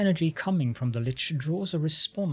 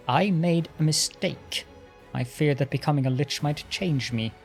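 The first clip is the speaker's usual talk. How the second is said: arrogant lich voice. Acted. Lich tells his history.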